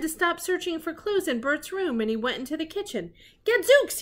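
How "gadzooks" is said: very high, loud exclamation; exclamation Gadzooks. Acted. Sherlock discovers fingerprints, yelping in astonishment. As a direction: yelp it in theatrical astonishment. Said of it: "he cried".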